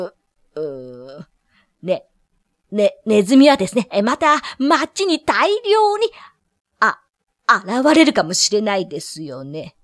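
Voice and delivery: nervous, stumbling official; stammering mayor. Acted. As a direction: stutter out an excuse.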